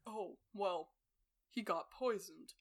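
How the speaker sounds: quiet, offhand indifference; shrugging Ned. Retold or imitated. Ned shrugging about poisoning, quiet and offhand. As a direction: toss it off dryly. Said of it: "he's like".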